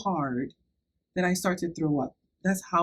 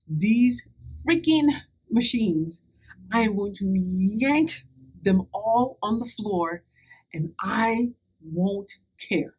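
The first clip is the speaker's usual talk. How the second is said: angry ultimatum; 3 semitones higher than usual. Retold or imitated. Ordering the nurse to unplug the machines, slow and furious. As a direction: lean on every word like a final warning.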